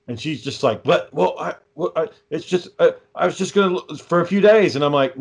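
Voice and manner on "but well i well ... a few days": higher, stop-start imitation of someone caught out; flustered excuse. Wife caught out, stammering excuses.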